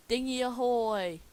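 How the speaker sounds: loud, high ahoy; lookout call. Acted. Lookout pirate calling down to the crew, shouting. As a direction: call it from the crow's nest.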